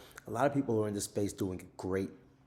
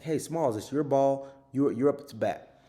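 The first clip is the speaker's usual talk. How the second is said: put-on high, loud kid's call; 6 semitones higher, 7 dB louder, slower than usual. Kid handing Smalls the ball, high and loud. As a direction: call a friend up to bat. Kids in the movie calling Smalls.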